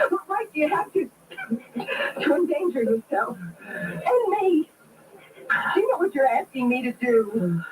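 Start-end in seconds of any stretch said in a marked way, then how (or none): 0.1-4.7 angry crying shout. Acted. Angry outburst at sick man.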